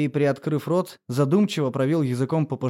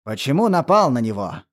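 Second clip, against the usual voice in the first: raised voice; 5 dB louder than usual. Acted. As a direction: voice raised, a little louder. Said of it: "Он повысил голос".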